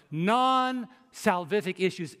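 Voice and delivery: "Non-salvific" drawn out, NON held long; clear emphatic repeat. Shown as a demonstration. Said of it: "let me say it clearly".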